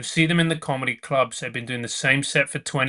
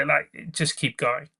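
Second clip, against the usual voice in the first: sincere encouragement; 4 dB quieter than usual. Real, not acted. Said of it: "if anybody who's listening".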